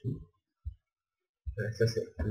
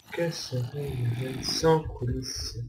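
slower, drawn-out rhetorical question; mock-theatrical question; 2 semitones higher than usual. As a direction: draw it out as if pondering grandly. (question rhétorique étirée, faussement solennelle)

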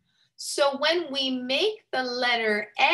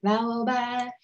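imitating the song; faster than usual. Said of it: "she says".

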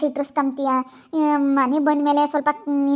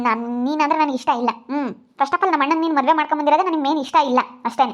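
louder, contemptuous tirade at the bride; angry scolding; 3 dB louder than usual. Acted. Sister-in-law loudly insults her brother's new wife, angry. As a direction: tear into her loudly with scorn.

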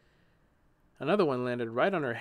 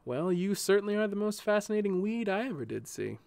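smiling; 7 semitones higher than usual. A narrator's reading. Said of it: "sighed with a smile".

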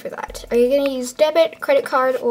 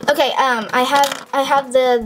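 ordinary delivery

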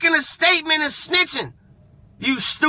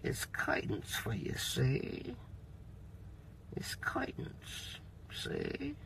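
put-on much softer and lower, a hushed old-movie gangster menace; old gangster whisper; 13 semitones lower, 22 dB quieter, slower than usual. A mob boss whispering a threat to the snitch, hushed gangster menace. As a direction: breathe the threat like a 1930s mobster.

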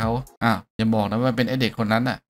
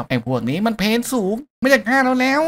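put-on kid shouting warning; 10 semitones higher than usual. Kid warns the hero about the wife, shouting. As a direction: yell the warning across the room. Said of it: "ตะโกนบอกว่า".

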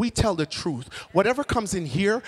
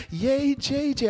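mock cheer; 6 semitones higher, slower than usual. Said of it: "everyone's like".

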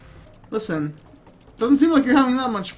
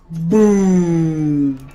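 mock explosion; 4 semitones lower, 5 dB louder than usual. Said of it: "Michael Bay style".

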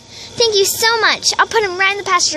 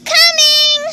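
far away; 8 semitones higher, 4 dB louder, slower than usual. Acted. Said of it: "Why does her voice sound so far away?".

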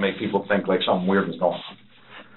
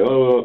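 a little louder, higher burble of fake talk; mock gibberish chatter; 4 semitones higher, 4 dB louder than usual. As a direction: pretend to chat in nonsense sounds. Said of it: "almost like just gibberish, just funny".

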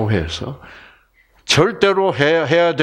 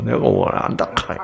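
Gyeongsang dialect; 10 semitones lower than usual. Retold or imitated. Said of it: "경상도 사람이었으면".

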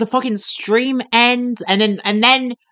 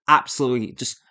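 low, softer, deliberate disgust; low-pitched, subdued dismay; disgusted emphasis; 9 semitones lower, 6 dB quieter than usual. Real, not acted. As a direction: dwell on each word, voice sunk. Disgusted at the wet rice.

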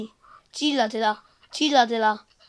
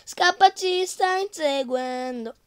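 being chased; 5 semitones higher, 4 dB louder, slower than usual. Real, not acted.

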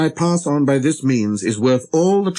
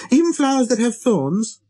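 put-on high child voice, rising question; little prince, questioning; 13 semitones higher than usual. A narrator's reading. Little prince checking on flowers with thorns, questioning. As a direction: ask it high, pressing for an answer.

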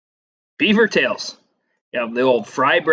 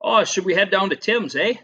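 playful Canadian impression with a raised "eh"; Canadian accent attempt; 5 semitones higher than usual. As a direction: try a Canadian accent, slipping toward Australian. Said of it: "if you're a real Canadian".

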